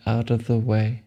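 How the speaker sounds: slow, measured meditation guide; unhurried phrases with long, restful pauses; guided meditation. Acted. Guide telling a meditator to let the body relax, calm meditation voice.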